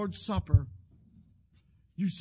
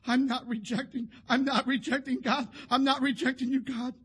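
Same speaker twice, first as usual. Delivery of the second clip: retold crying out; 5 semitones higher, 5 dB louder than usual. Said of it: "crying out".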